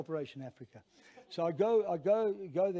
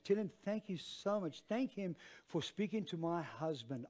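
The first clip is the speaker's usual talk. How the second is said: retold heartfelt gratitude; 5 dB quieter than usual. Retold grateful phone message from wife.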